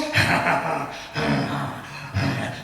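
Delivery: low, drawn-out mock jinn cackle; imitated jinn laugh. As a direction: laugh low like a possessing spirit. Imitating jinn after "can't see anything.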